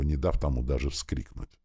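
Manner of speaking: ordinary delivery, nothing marked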